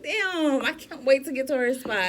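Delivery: high-voiced "damn" of admiration; admiring reaction. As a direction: play an awed fan scrolling. Acts out admiring reaction to Instagram.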